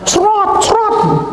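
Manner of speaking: high snorting srot sounds; blowing her nose onto your shirt; nose blowing noise. Retold or imitated. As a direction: mimic a wet nose blow. Imitating woman blowing her nose.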